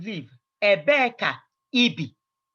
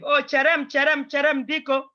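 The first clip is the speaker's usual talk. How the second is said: calling after them; 7 semitones higher than usual. Retold or imitated. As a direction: beg them to wait as they leave. They're about to leave.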